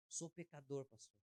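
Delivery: subdued, softly said admission; retold humble confession; quiet confession. Repeats the confession to pastor.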